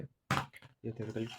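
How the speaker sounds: drawn out, very slow words; slow speech. Real, not acted. Teacher with a headache explaining theory to students, very slow. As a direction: stretch each word slowly for the class. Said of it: "इसलिए थोड़ा slow बोलूँगा".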